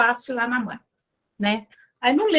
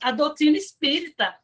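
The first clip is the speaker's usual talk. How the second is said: indignant surprise; 3 semitones higher than usual. Retold or imitated. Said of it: "Aí ela falou".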